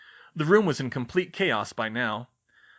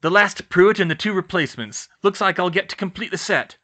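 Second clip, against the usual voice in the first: gloating villain; 6 semitones higher, 7 dB louder than usual. Acted.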